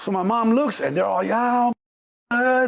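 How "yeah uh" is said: hammed-up gang hollering; mock yelling. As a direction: whoop it up like a rowdy gang. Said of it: "they're yelling and shit".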